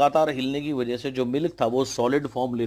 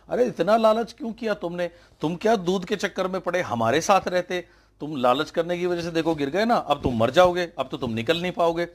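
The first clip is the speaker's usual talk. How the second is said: taunting frogs; 5 semitones higher than usual. Retold or imitated. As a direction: jeer at the frog in the pit. Frogs taunting the fallen frog. (ताना मारते मेंढक, ऊँची आवाज़ में)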